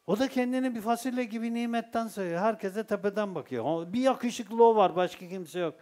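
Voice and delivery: normal talking voice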